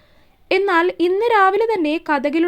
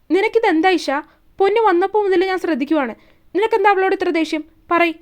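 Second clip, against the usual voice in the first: a raised, confronting voice; angry demand; 3 semitones higher than usual. Acted. Shiva confronting Isha about her anger, raised and sharp. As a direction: demand an answer, voice pitched up.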